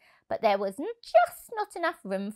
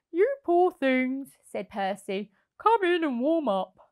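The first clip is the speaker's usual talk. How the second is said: caring Percy; 4 semitones higher than usual. Acted. Percy comforts rabbits.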